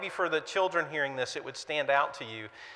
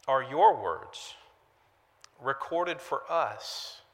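slowed, softening prayer that drops toward the amen; pastoral prayer; 2 semitones lower than usual. Acted. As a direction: pray humbly over the congregation. Leads congregation in prayer.

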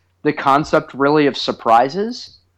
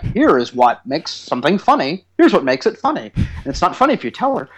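mock college-course explaining; lecturing explanation; 2 semitones higher than usual. Dad teaching his son what makes pranks funny, lecturing. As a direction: lay it out point by point, insistently. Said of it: "explaining to him, like, college course level".

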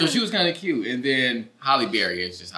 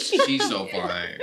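drooling guy voice; 7 semitones lower, 3 dB quieter, much slower than usual. Retold or imitated. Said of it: "looking at all the guys like".

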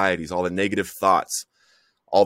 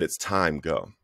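low, hushed retold voice; soft inner whisper; 4 semitones lower, 6 dB quieter, slower than usual. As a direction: softly voice a quiet inner prompting. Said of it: "like this soft whisper in my heart".

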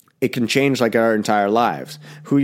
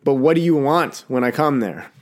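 put-on whiny kid; 4 semitones higher than usual. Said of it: "You're like".

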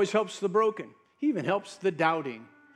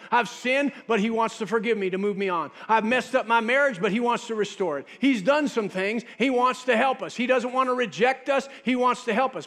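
fervent self-assurance; confident believer; 3 semitones higher, 4 dB louder than usual. Pretend. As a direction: declare it with growing confidence.

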